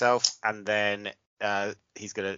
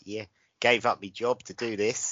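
mock Aussie contestant; Australian accent. Imitating a MasterChef contestant's confession, Australian accent. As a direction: put on casual Australian vowels. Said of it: "You're pretty good at Australian accent".

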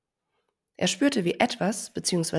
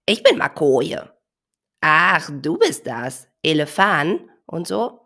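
perky bird; 8 dB louder, slower than usual. Acted. Bird introduces himself.

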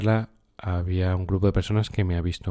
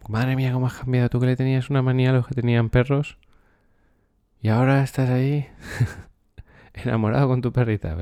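amused teasing quote; 4 semitones higher, faster than usual. Retold or imitated. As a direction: mimic a friend's amused surprise, fast. Antiguos alumnos dicen que ha cambiado. (imitando a un amigo que bromea, más rápido, agudo y fuerte)

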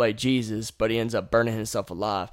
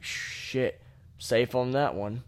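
whispered relief; 8 dB quieter, much slower than usual. Retold or imitated. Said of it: "you're like".

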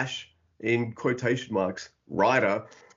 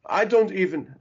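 higher, put-on Chinese accent; Jet Li accent; 6 semitones higher, 4 dB louder than usual. Comedian quoting Jet Li near the film's end, in a put-on accent. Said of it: "I don't know why I did the accent".

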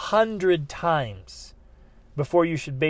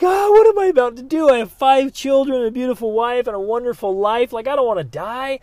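high, loud fearful outburst; panicked worry; 8 semitones higher, 7 dB louder than usual. Retold or imitated. Husband and wife fearing the jump, high panicked fretting. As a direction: fret out loud about dying. Voicing their fear that night.

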